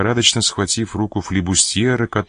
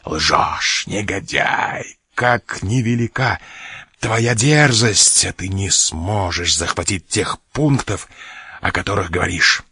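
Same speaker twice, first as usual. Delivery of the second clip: furious cry; slower than usual. A narrator's reading. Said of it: "закричал голосом, прерывающимся от бешенства".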